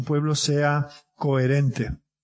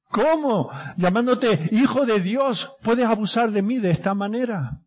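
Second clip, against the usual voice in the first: crying out; 5 semitones higher than usual. Acted. Oppressed people crying out.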